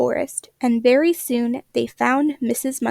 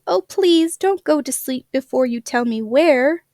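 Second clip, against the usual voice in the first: urgent plea. Acted. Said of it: "cried Katy".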